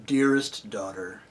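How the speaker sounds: tender lion. A narrator's reading. Aslan tenderly greets Hwin.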